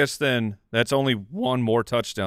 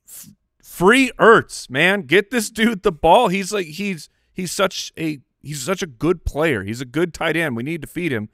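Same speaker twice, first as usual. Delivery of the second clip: imitated fan screaming; 6 semitones higher, 4 dB louder than usual. Fan recalling screams at the TV for Ertz, mock screaming. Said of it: "We were screaming, like".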